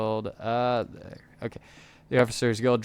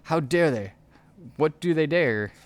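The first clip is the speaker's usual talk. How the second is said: raging peasant; 4 semitones higher than usual. Acted. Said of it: "he raged in peasant accent".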